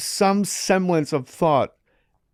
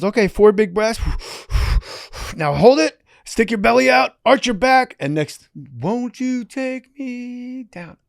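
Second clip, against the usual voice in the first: higher, louder Australian commands; loud Australian breath coach; 10 semitones higher, 6 dB louder than usual. Retold or imitated. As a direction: coach the breathing in an Aussie voice, slowing at the end. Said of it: "he's Australian".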